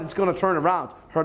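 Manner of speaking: ordinary talk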